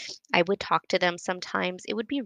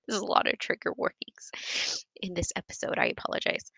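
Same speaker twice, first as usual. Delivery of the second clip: laughing whisper. Real, not acted. Apologetic aside about trigger warnings.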